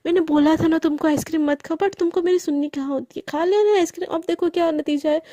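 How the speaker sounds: mildly acted scolding; an acted I-told-you-so scold; angry. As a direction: tell off with rising exasperation. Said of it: "गरिमा एकदम गुस्सा हो जाती है".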